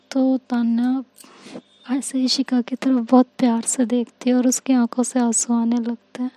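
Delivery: plain reading voice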